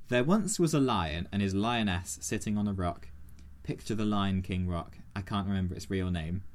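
mock-serious storybook reading; story narration. Host reads the fan's novel aloud, storybook narration. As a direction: read it like a grand audiobook.

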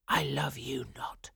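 very soft, whispery phrase; misheard rejection. A narrator's reading. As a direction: breathe it like words echoing in her head. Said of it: "all she heard was".

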